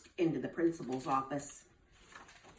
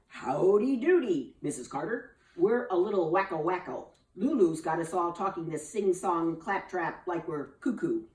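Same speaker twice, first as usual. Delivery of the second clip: folksy principal. Acted. Mister Thomas greets the nurse, folksy and sheepish. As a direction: greet her like a cowboy.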